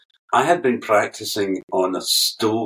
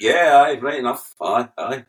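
broad Scottish answer, higher; 4 semitones higher, 4 dB louder than usual. Retold or imitated. Jim answering the interviewer in broad Scottish. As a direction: lay on the Scottish, aye right enough. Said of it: "Scottish answer".

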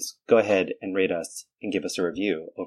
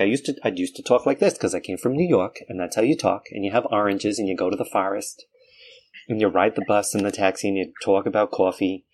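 New York accent. Shown as a demonstration. Showing classmates how they used to talk, New York accent. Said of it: "I used to have a New York accent".

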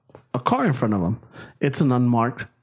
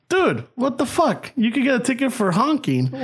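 disbelief; 6 semitones higher than usual. Retold or imitated. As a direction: drag out the shock. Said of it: "And I'm like".

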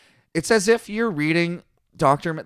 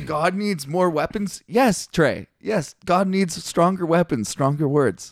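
sarcastic reading; 4 semitones higher than usual. Retold or imitated. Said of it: "I'm reading it sarcastically".

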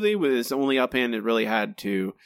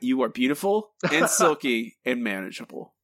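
mock tender. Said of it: "I don't say that enough about you".

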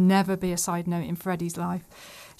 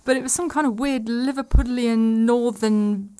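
exasperated; 3 semitones higher, 4 dB louder, slower than usual. Real, not acted. Exasperated rant about bad accent.

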